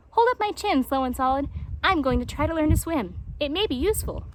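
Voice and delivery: a cheerful little hedgehog asking for help; lightly voiced eager hedgehog. Stickly Prickly voiced.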